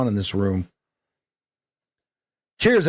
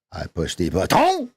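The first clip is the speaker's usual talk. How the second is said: French-sounding vowels, button said batɔ; mock French accent; 6 semitones lower than usual. Shown as a demonstration. Coach fakes French pronunciation. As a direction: fake the French. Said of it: "how Americans think that French speak".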